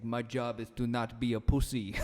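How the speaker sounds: lightly put-on Terminator-like voice; Gabby Garcia. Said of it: "Is that how she sounds to you".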